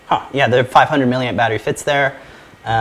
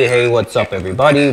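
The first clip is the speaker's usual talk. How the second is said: processed, monstrous voice effect; demon voice changer; 4 dB louder than usual. Shown as a demonstration. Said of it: "demon episode".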